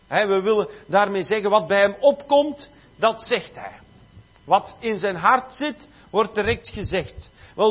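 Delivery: animated sermon delivery; preacher pressing the message home; emphatic preaching. Real, not acted. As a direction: preach the point with firm emphasis.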